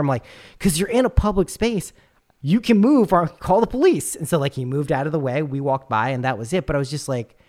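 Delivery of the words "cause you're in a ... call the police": higher, louder rebuttal; retold rebuttal. The speaker telling the stranger to move, loud and higher. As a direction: hammer the point home.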